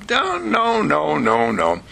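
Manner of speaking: emphatic objection. Acted. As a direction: cut them off with repeated no's. Interrupts owners' excuses with objection.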